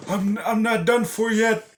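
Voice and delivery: high, loud hammed-up monster voice; monster threat. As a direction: snarl it like a beaten monster rising again. Monster rising again, menacing.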